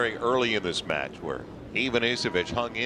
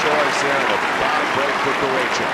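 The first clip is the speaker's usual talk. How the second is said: raised, urgent play-by-play call; excited call; 4 semitones higher, 8 dB louder than usual. Real, not acted. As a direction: call the point loudly as it happens. Live call of a lucky net cord.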